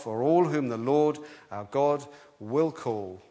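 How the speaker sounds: slow, weighty reading of the verse; slow scripture reading. Shown as a demonstration. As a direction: lay each word down like scripture. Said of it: "Verse thirty-nine".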